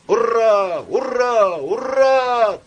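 high, loud triple hurrah; cheering shout. A narrator's reading. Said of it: "Турбин крикнул и поднял стакан". (громкое «ура»)

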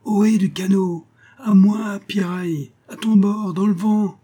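high, loud eager hail back; ship's boy answering his friend's call over the waves, high and loud; fervent answering call. Acted. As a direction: call back with all your heart. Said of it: "répondit avec ferveur".

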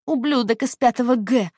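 put-on high, loud sneering child; childish contempt; spiteful schoolgirl. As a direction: spit out the class name. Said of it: "child voice under hypnosis".

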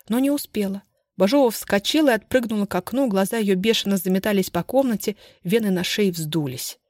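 ordinary delivery, nothing marked

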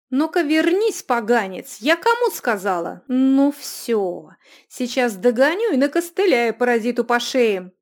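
high, loud shout after someone running off; angry yelling. Acted. Runika shouts after the escaping youth in anger. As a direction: bellow it in a rage.

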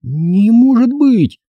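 put-on slow, high, choked-out girl's voice; girl aghast. A narrator's reading. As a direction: squeeze it out in shock. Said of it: "выдавила она". (девочка в шоке выдавливает)

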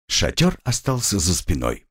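usual speaking voice

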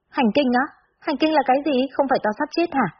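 high-pitched, puzzled questions; bewildered questioning. A narrator's reading. Confused girl asking her friend what periods are, bewildered. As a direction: ask naively, pitch lifted in surprise.

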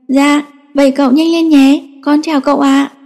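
put-on sweet little boy on the phone. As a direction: play a small boy saying bye on the phone. Child says goodbye to uncle.

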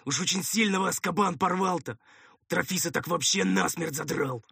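eager servant's running chatter; droning helper voice. A narrator's reading. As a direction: babble comfort to a wounded master. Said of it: "забубнил голос над ухом".

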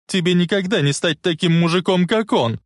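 high, indignant put-down; angry taunt. Acted. Lorraine comparing Biff to George, angry taunt. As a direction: throw it at him in anger.

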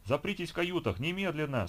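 panicked order to lock the cabins; cracking shout. A narrator's reading. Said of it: "срывающимся голосом прокричал стюард". (срывающийся крик стюарда)

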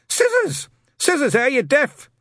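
loud, very high bellow; impatient shout. Acted. Shadwell yelling at Newton down the phone, loud. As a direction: bellow it at him.

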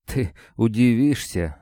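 squeezed out with effort; forced out. A narrator's reading. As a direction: force the words out painfully. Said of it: "выдавил Гриша".

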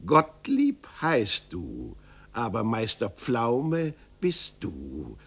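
slow, mocking little gnome; lightly voiced hunchback, taunting; teasing little man. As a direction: draw it out to needle him. Little man's voice in story.

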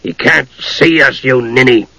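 slow, grumpy put-down; scolding dwarf. Acted. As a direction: spell it out slowly, mildly exasperated. Dwarf scolds chattering kender.

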